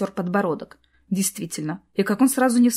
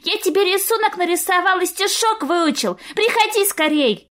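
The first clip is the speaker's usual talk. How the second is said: put-on ecstatic little boy; 10 semitones higher than usual. A narrator's reading. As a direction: squeal it like a thrilled boy. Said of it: "захлёбывающийся от восторга мальчишеский голос".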